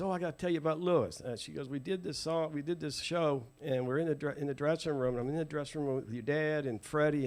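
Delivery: lightly voiced woman launching into her anecdote; imitating Betty. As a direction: retell it eagerly in her manner. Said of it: "do it the way she told me".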